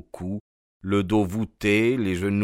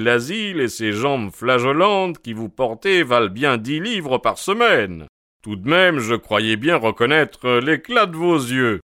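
hearty, slightly raised character voice; lightly voiced jovial policeman; delighted Jones, admiring; 3 semitones higher, 4 dB louder than usual. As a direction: congratulate him with emphatic gusto. Jones congratulates Holmes on disguise.

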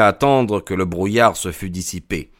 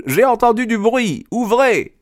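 very high, urgent call; raised, excited command; crying out; 4 dB louder than usual. A narrator's reading. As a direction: demand it in a high-pitched cry. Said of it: "s'écria Lestrade".

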